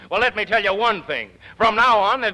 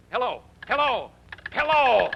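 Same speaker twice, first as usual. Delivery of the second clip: calling into the phone; 5 semitones higher than usual. Acted. Manager calls into the phone after being cut off, building. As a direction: keep calling as the line goes dead.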